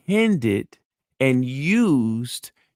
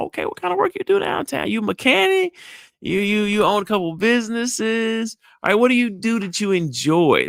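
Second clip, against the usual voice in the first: much higher, quick, curious questions; eager interest; 7 semitones higher than usual. Shown as a demonstration. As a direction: draw him out, bright and eager. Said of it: "engaging in his passion".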